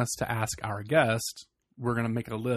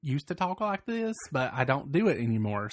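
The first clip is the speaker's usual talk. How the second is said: Virginia redneck accent. Shown as a demonstration. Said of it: "See, that's pretty good".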